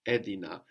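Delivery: Edina accented on its opening E; Edina, front syllable stressed; stress on added syllable. Shown as a demonstration. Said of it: "So we have somewhere to put it".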